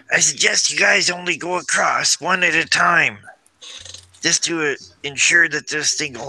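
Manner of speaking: high stage whisper. Calling across the chasm to the group, in a stage whisper. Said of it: "I do it in like a stage whisper".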